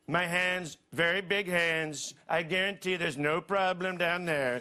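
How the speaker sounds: Trump impression. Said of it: "He will look into the camera and say".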